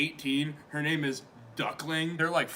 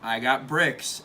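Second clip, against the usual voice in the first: lightly voiced laid-back dude; a hint of a mellow dude; chilled-out dude; 3 semitones lower than usual. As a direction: play a chilled-out guy, slightly lower. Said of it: "like, chilled out dude".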